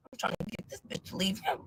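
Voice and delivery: unvoiced whisper of a plotting thought; whispered scheming. Imagining his plan against Cal, conspiratorial whisper.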